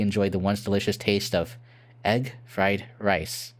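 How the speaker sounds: mock-solemn game ending narrator; ending narration. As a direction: narrate the sad ending gravely, slowing at the last words. Reads the game's ending text.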